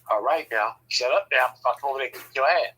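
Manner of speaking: low-pitched warning, imitating a sister; mock threat. Sister threatening her husband, low mock warning. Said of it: "threatening me like she gonna do something".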